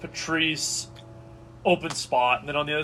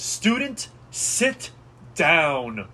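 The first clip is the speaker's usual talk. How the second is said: magically amplified voice; 4 dB louder, much slower than usual. Acted. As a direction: boom it out like a spell-amplified teacher. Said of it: "you hear a booming voice".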